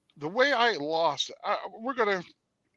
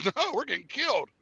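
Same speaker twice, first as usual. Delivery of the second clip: buddy's voice; 8 semitones higher than usual. Retold or imitated. Buddy's voice in retold call.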